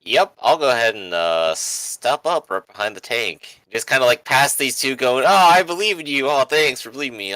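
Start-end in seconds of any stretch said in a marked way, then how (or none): 5.2-7.3 mocking sappy voice. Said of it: "I'm gonna throw up".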